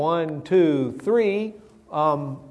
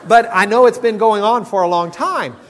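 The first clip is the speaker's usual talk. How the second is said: louder, higher, laughing through the words; laughing aside; 6 semitones higher, 10 dB louder than usual. Real, not acted. Preacher laughing while joking about wives. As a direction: spill the line out through laughter.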